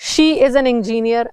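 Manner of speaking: very slow, each word separated; slow example. Shown as a demonstration. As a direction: read "She is an engineer" slowly for the class. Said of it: "ठीक है".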